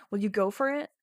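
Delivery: usual speaking voice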